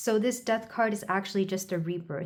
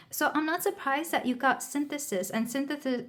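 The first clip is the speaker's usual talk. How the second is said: slightly slurred, numb from the dentist; numb mouth; 6 semitones higher than usual. Real, not acted. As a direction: speak through a numb mouth after dental work. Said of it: "my mouth is a little numb 'cause I had a dental procedure today".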